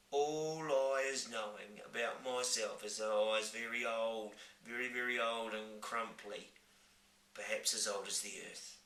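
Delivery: put-on old giant voice. Giant reflects.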